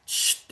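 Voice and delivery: soft imitated wrapper hiss, shhh; unwrapping hiss. Shown as a demonstration. Teacher imitates an unwrapping sound for students, soft hiss. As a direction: hiss like plastic being unwrapped. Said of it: "ऐसे वाला sound होता है".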